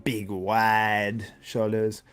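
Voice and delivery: mild imitation of Milos's accent breaking down physiques. Streamer imitates Milos's accent judging bodybuilders. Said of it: "I can't do Milos impersonation".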